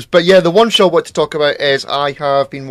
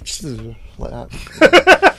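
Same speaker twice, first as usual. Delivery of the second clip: showing a shimmer; 2 semitones lower, 5 dB louder, much slower than usual. Shown as a demonstration. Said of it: "what does a shimmer look like".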